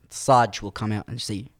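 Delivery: lightly imitated Greek cop's English; broken English accent. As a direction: Greek policeman's broken English, mildly put on. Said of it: "In the most broken English accent".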